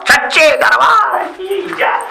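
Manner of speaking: slow, drawn-out slogan; devotional cheer. Acted. Devotee setting off to the wrestling, hailing slowly. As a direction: proclaim it as a long hail.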